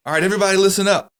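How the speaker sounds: loud, high mock general rallying the troops; general's speech. General addressing troops before war, hammed-up loud speech. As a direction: shout it like a general hyping up idiots. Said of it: "but the general goes".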